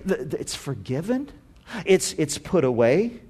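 stammered, tentative questions; hushed amazement. Acted. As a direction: falter softly in wondering disbelief. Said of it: "in his heart it was like".

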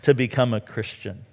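king mocking the prisoner with a laugh. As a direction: tease him, half laughing. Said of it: "Agrippa was just mocking".

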